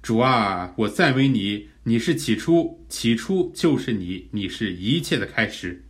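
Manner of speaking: demonstrated prayer of praise; 赞美祷告. Shown as a demonstration. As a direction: praise the Lord in earnest, declaring it phrase by phrase. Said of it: "我们就可以在那里赞美神". (恳切赞美的祷告)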